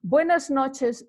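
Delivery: Buenas noches slowly, bwenas notʃes; slow Spanish demo. Shown as a demonstration. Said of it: "teaching demo".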